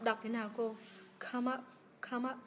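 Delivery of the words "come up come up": "come up" joined, the m starting "up"; linked m. Shown as a demonstration. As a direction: say "come up" as one word, like "comma-p". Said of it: "nối như vậy mà em".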